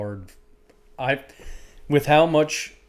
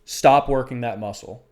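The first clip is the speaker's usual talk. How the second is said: firm self-command; 4 dB louder than usual. Retold or imitated. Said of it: "I literally said to myself".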